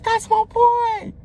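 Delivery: high, slow, stretched shout of pride; proud cheer. Retold or imitated. Shouting for friend crossing the stage, stretched cheer. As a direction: call it out across the hall.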